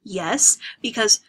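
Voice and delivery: a flash of anger before the whisper; heated protest. Acted. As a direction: insist hotly as he starts to explain. Andrews argues heatedly with Lena.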